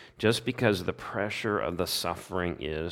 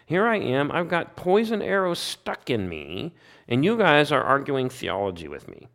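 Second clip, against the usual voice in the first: anguished Job; 6 semitones higher than usual. Retold or imitated. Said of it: "It's like".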